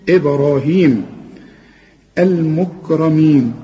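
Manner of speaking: إبراهيم المكرمين with every letter kept light and thin. Shown as a demonstration. Teacher to student: recite it with thin, light letters. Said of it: "كل الكلمة دي مرققة".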